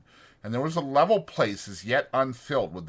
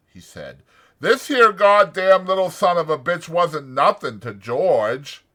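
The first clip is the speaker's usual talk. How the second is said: loud, anxious simple man; Lenny's worried voice; 4 semitones higher, 8 dB louder than usual. A narrator's reading. Lenny frets to himself over the dead puppy, loud and anxious. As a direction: fret out loud about George finding out.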